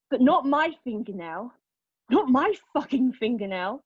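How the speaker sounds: rising indignant protest; bitter anger. Acted. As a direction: throw it back at the doctor. Angry outburst at doctor.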